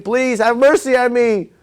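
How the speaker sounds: high, slow mock plea for mercy; pleading scream. The dreaming king to the mob, a high pleading cry. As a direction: beg for mercy like a doomed man, half-acted. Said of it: "he was screaming".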